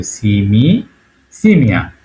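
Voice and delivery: "সিমি" drawn out, then whole "সিমিয়া"; pronunciation demo. Shown as a demonstration. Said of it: "এভাবে উচ্চারণটা হবে".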